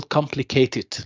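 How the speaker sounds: "complicated" with COM stressed clearly; stress on first syllable. Shown as a demonstration. Teacher quizzing students on stress, "complicated" with COM stressed. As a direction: say "complicated" for learners, marking COM. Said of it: "so what is the stressed syllable?".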